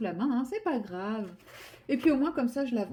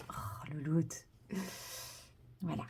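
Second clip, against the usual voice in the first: whispering; 4 semitones lower, 11 dB quieter, slower than usual. Real, not acted. Aside while cat settles.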